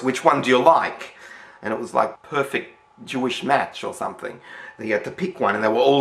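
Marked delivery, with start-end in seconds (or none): 0.0-1.1 mock loud question. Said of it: "in this really loud voice".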